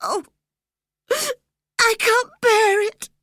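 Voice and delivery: high, loud, slow crying wail; sobbing. A narrator's reading. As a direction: sob the words out in despair. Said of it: "he sobbed".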